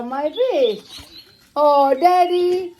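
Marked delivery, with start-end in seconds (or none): 1.5-2.7 high cooing. Pretend. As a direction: sing out daddy fondly to the baby. Cooing to baby.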